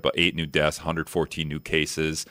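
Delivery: flat robotic number reading. Shown as a demonstration. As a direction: read it out like a robot, slow. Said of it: "I'm gonna say it, like, kind of robotic".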